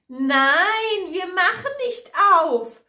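high, loud little-goat voices; kids calling out. A narrator's reading. Kids refuse to open up for the wolf, calling shrilly high. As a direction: shout back in a high, indignant child's voice. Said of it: "Die Zicklein rufen".

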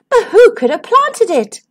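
wondering. Acted. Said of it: "they wondered".

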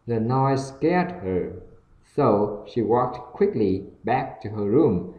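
slow, careful English story reading; learner read-aloud. Acted. (đọc truyện tiếng Anh chậm, rõ từng từ)

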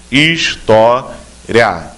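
História said very slowly, each syllable stretched apart; drawn out syllable by syllable. Shown as a demonstration. Teacher showing candidates the syllables of História, very slow and drawn out. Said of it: "três sílabas".

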